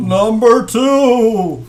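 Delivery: slow, high, loud ghostly wail; drawn-out spooky ghost call. Acted. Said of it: "in a ghost voice like this".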